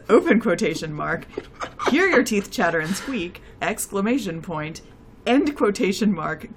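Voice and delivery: reading aloud, saying every punctuation mark; dictating. Acted. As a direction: read it like a dictation, calling out each comma and bracket. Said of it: "which I'm very excited to hear about".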